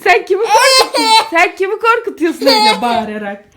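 high, loud scolding question; loud challenge. Real, not acted. Mother asks screaming child whom they're scaring, loud challenge.

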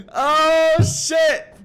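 loud, high laughing shout. Real, not acted. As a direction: howl with laughter. Huge laugh at in-game sight.

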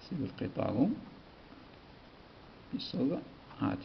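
soft, very slow word-by-word dictation. Shown as a demonstration. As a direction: spell it out slowly for writing. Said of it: "dictating the example sentence".

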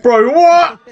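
high, loud laughing disbelief; surprised laugh. Real, not acted. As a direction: laugh it out in shock.

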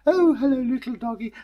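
put-on chirpy child calling out hello to everything; little girl. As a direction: falsetto little girl greeting the world. Girl greets dog.

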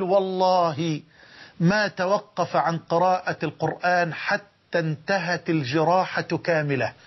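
slow, stretched-out testimony with a long والله; solemn retold oath. Preacher retelling doctor's oath about the patient, solemn and slow.

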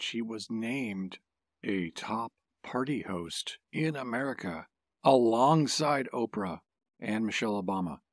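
"a top party host in America" set apart by pauses; emphatic repeat. Shown as a demonstration. Co-host underlining her honor, emphatic phrasing of "alongside Oprah". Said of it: "I want to emphasize the fact".

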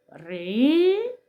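Ри-ба with Ри drawn out, rising, then ба apart; slow syllables. Shown as a demonstration. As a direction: slowly stretch each vowel of Ри-ба. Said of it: "Промовляємо повільно".

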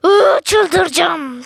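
drawn-out slow groan of frustration; exasperated. Real, not acted. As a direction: stretch it out, losing patience. Oyunda sinirleniyor. (uzatarak sinirli inleme)

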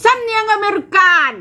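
a jokey American accent; mock American accent. Shown as a demonstration. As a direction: pitch up and hammed-up American. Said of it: "พูดภาษาอังกฤษให้เป็น".

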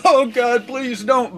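high-pitched dreading plea; inner pleading. Retold or imitated. Patient dreading a touch on his finger, inner pleading. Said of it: "I'm in my head, I'm going".

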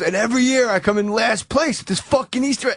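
mildly agitated, imitating a sore loser; amped up. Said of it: "getting, like, more and more amped up".

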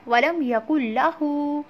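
वलम यकुल्लाहु with the हू drawn out long; वलम यकुल्लाहु with a lengthened हू. Shown as a demonstration. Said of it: "हू को हमने क्यों लंबा किया है".

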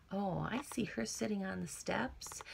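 soft unvoiced storytime whisper; gentle secretive whisper; hushed whisper. Shown as a demonstration. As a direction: lean in and whisper it. Teacher hushes while describing picture.

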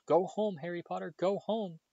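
very high, pressing elf plea; high urgent elf voice. A narrator's reading. Dobby urges Harry to leave, very high and urgent. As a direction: urge him away desperately.

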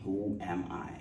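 whispered question. Acted. Preacher recalling last sermon's question, whispered. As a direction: whisper it to yourself.

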